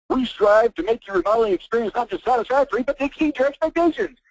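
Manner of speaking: high singsong slogan parody; mocking website read. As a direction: read the mission statement in a high, silly voice. Mockingly reads customer's website slogan.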